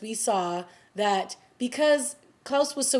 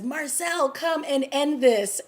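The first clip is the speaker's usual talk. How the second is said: mock yell; 5 semitones higher, slower than usual. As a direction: imitate Klaus calling out a challenge. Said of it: "Klaus yells to Marcel".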